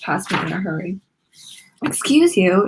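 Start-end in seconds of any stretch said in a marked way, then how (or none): 1.8-2.7 hissed. Acted. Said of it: "she hissed".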